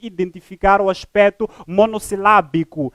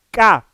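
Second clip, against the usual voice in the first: "K" louder, set apart as the strong syllable; stressed syllable; 3 dB louder than usual. Shown as a demonstration. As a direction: hit "K" firmly, with more force. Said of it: "porque é pronunciada com maior intensidade da voz". ("K" com maior intensidade, como sílaba tônica)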